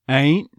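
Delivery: "Ain't" starting on a schwa, "uh-eent"; neutralized diphthong. Shown as a demonstration. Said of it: "first half of it getting neutralized".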